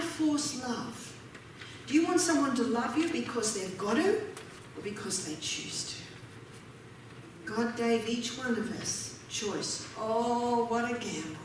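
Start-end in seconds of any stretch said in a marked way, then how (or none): 4.8-7.5 hushed question. Real, not acted. Soft rhetorical question.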